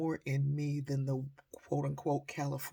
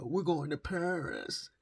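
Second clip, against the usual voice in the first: daughter's character voice; 2 semitones higher, slower than usual. Retold or imitated. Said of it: "character voice that she would do".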